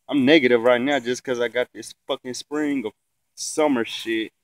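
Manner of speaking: sniffly, blocked nose; talking through a stuffy nose. Real, not acted. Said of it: "got the sniffles like a fucking crackhead".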